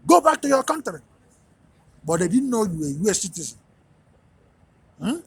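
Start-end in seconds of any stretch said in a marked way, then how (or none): 0.1-1.0 hostile taunt. Retold or imitated. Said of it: "start talking shit to you and telling you".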